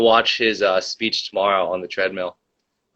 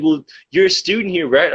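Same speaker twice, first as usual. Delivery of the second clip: high, prissy mock question; high mock-official voice; mocking the staffer; 7 semitones higher, 3 dB louder than usual. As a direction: parody a condescending clerk.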